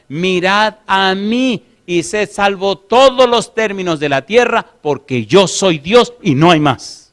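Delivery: slow, weighty reading as God speaking; lightly voiced divine command, drawn out. Pastor reads God's call to the congregation, slow and solemn. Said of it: "dice Dios".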